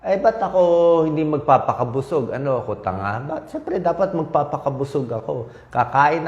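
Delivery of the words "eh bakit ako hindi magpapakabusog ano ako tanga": mock commenter. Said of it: "Lagi sinasabi ng nagko-comment".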